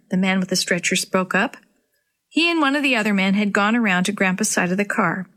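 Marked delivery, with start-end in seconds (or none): none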